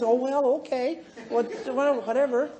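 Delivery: easygoing, mildly confused acceptance; unruffled. Acted. Sister-in-law letting a rant pass, unruffled. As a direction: brush the rage off without getting upset. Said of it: "Never get upset".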